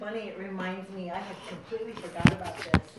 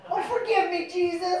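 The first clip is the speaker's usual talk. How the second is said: imitating sheepish mom; 7 semitones higher, 5 dB louder than usual.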